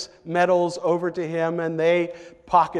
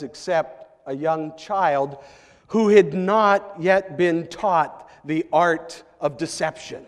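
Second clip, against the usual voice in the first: normal talking voice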